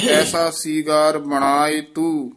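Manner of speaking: "ਐਸਾ ਸੀਗਾਰ ਬਣਾਏ ਤੂੰ" measured, half stop after "ਤੂੰ"; half pause. Shown as a demonstration. Teacher marking half visram, short pause after "ਤੂੰ". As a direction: rest briefly on "ਤੂੰ". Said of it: "ਇੱਥੇ ਅਰਧ ਵਿਸਰਾਮ ਹੈ".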